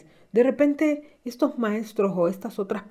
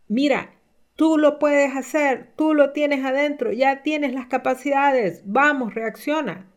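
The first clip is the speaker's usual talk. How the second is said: urgent inner voice; 5 semitones higher, 4 dB louder, slower than usual. Retold or imitated. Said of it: "un grito de alarma que tú mismo te estás diciendo".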